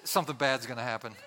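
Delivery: nervous chuckle through words; half-laughing, mock nervous; laughing nervously. Real, not acted. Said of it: "this makes me nervous".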